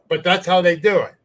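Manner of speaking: retold heated mockery; mocking challenge. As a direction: throw his words back at him. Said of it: "now I'm mad".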